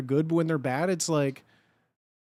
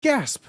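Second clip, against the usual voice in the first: mock gasp; 10 semitones higher, 7 dB louder than usual.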